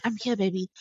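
softly imitated comforting partner; retold reassurance. Husband reassures his labouring wife he is there, softly. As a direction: drop to a soft, soothing voice.

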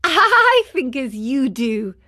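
laughing. A narrator's reading. Marionette agreeing with the man, laughing. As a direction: let a laugh run into the line. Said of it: "answered the marionette, laughing".

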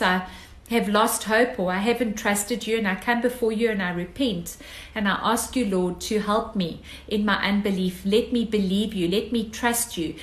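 hushed sincere prayer to God; humble prayer. Acted. Leads a spoken prayer.

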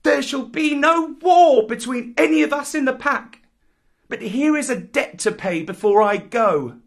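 put-on high, loud, proud jungle boy; defiant Mowgli. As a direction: scornfully lord it over the pack. Mowgli lays down terms to pack.

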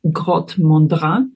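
French place name said slowly; attempted French accent. Real, not acted. Researcher naming a cave site for an interviewer, attempted French accent. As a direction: give the name a careful, non-native French pronunciation. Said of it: "apologies for my French accent".

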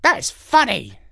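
high odd crow voice; amused old crow. Acted. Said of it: "said the crow".

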